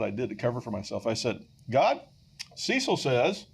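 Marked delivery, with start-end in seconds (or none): 1.7-3.5 mock-earnest prayer. Prayer blaming Cecil.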